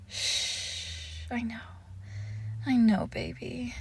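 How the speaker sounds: soft, soothing hush; tender hushing. Acted. Lover calming their pet in bed, tender hushing. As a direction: hush them gently and comfort them.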